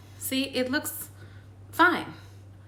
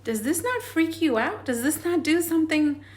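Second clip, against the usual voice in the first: emotional appeal; 5 semitones higher than usual. Real, not acted. Urging viewers, emotional appeal.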